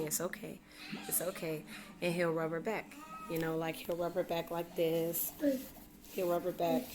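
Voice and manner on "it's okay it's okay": soft hushed reassurance, imitating dad; soothing whisper. Dad hushing upset toddler in her ear, soft murmur. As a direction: murmur it gently like calming a toddler. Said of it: "he'll whisper in her ear".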